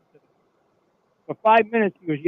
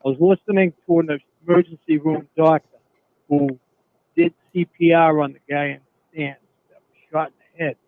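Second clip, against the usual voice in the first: louder, pushing the voice to be heard; speaking up; 4 dB louder, slower than usual. Real, not acted. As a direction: talk up over a bad phone line. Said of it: "can you speak up".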